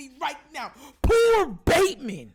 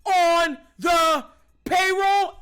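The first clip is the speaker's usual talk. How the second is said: slow, loud, cracking outcry; anguished shout; 3 semitones higher, 4 dB louder than usual. Real, not acted. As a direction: wail it out in frustration. Ranting about wasted careers.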